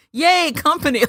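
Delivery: high, loud imitation of delighted boys; excited. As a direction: cheer like thrilled kids greeting guests. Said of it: "Like, they're excited".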